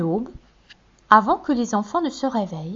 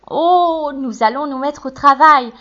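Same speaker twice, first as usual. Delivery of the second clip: Hansel; 5 semitones higher, 6 dB louder than usual. A narrator's reading. Hansel voiced in tale.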